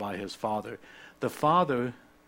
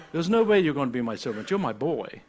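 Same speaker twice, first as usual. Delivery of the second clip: emphatic, heartfelt insistence, acting the father; impassioned father; 3 semitones higher, 5 dB louder than usual. Father reassuring his returned son, impassioned and insistent. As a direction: insist lovingly, starting quick and forceful, slowing at the end. Father voiced, refusing the servant idea.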